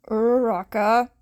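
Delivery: loud clipped name; sharp reproach. Acted. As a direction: call her out. Shinso chides her.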